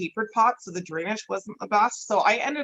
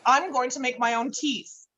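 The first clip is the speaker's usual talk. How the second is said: defiant refusal; 5 semitones higher than usual. Retold or imitated. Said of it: "I'm like".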